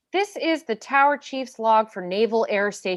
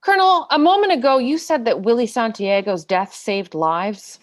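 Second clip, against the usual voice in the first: forceful challenge; 5 dB louder than usual. Acted. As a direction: come at him with sudden force. Lawyer presses the witness hard.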